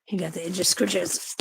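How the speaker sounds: whispered, breathy coo to a pet; gentle whispered pet talk. Real, not acted. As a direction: hush it to the sleepy cat. Talking softly to pet cat.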